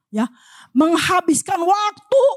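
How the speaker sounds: normal talking voice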